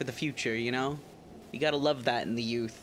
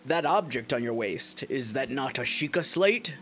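put-on regal old king. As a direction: address a guest from the throne. The king's dialogue continues.

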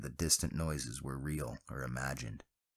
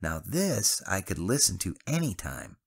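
slurred; 4 semitones higher than usual. Acted. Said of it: "Travis slurred".

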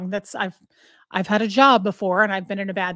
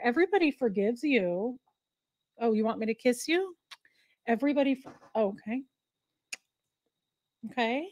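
comforting the dog. Real, not acted. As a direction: coo reassurance gently.

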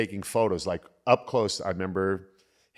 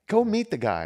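imitating Jason; 11 semitones higher than usual. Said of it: "He's like".

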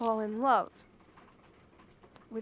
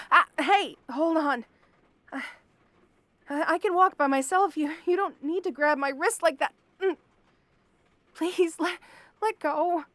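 alarmed pleading; 3 semitones higher, 4 dB louder than usual. Acted. Wrist grabbed by captor.

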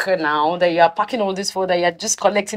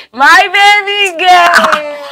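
excited; 10 semitones higher, 12 dB louder, much slower than usual. Acted. Greets friend with excitement.

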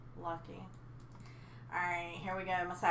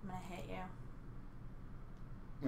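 mock threat; 2 semitones lower, 10 dB quieter, much slower than usual.

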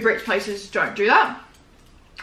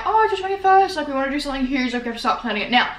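imitating mum; 4 semitones higher than usual. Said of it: "my mum's like".

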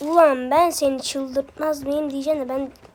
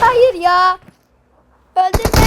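loud, higher cry of no, don't kill me; desperate shout; 5 semitones higher, 10 dB louder, much slower than usual. Real, not acted. Gamer yelling at the enemy about to kill him, loud desperate shout. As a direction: yell it as your character dies. Getting killed in the game.

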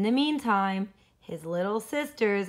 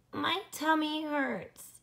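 slow, high whiny groan; 8 semitones higher, slower than usual. Acted. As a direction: moan it like a tummy ache. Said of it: "he groaned".

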